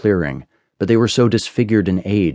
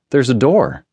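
higher-pitched call to a friend; 6 semitones higher than usual. A narrator's reading. Oliver calls Sid over to a door, calling out with raised pitch. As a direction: call out a find, voice lifting. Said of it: "Oliver called to me".

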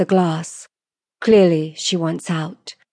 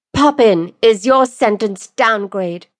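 slow, raised, formal verdict; pronouncing sentence; 4 semitones higher, 4 dB louder than usual. Acted. Lordess sentencing the desperate woman, slow proclamation. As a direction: hand down the verdict word by word.

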